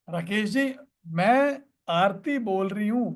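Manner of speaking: slow self-introduction, pausing after "Rakesh ji"; unhurried introduction. Shown as a demonstration. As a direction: introduce yourself unhurriedly to someone on the phone. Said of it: "पूरे accent में".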